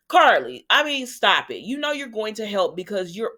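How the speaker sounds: exasperated "stop it"; exasperated scolding. Real, not acted. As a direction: tell her off like she can hear you. Scolding a TV character.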